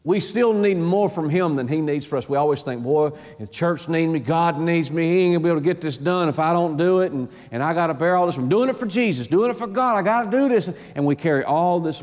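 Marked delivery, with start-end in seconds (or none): 2.8-10.7 burdened and harried. Acted. Preacher mimics believers who think God needs them, harried and building. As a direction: voice the overburdened worker, pitch climbing. Acting out an overburdened church worker.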